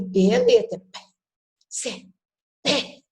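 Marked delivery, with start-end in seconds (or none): 0.8-1.0 Bé as the bare consonant sound; Bé pronounced as a sound; phoneme sound. Shown as a demonstration. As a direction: repeat Bé as the sound. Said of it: "não é B".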